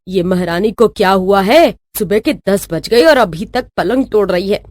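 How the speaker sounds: mildly grumbling mother-in-law; understated low-key carping. Acted. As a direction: grumble to yourself about her. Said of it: "सास बैठे बैठे बड़बड़ाने लगती है".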